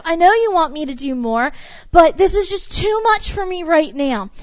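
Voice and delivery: a touch of anguished shouting; frustrated complaint to God. Retold or imitated. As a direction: push back at God, overwhelmed. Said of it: "And we're like".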